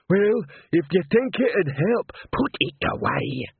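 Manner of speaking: slow troll voice, starting high; slow-witted troll, drawn out. A narrator's reading. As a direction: plod through it as an earnest, literal troll. Troll takes sarcasm as advice.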